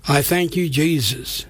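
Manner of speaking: prayer in short phrases, settling at the close; slow prayer. Shown as a demonstration. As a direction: lead it phrase by phrase for repeating. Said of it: "and I'll say it slow".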